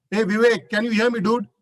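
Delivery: loose, chummy call-out; casual friendly tone. Shown as a demonstration. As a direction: call to him like a buddy. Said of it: "the two different Vishals completely".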